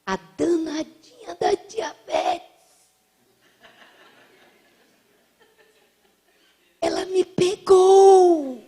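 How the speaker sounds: put-on high, slow, drawn-out old lady voice; the old woman revealing her diabetes, high and slow; old lady confiding. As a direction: confess it with rueful drama. Old lady confesses her illness.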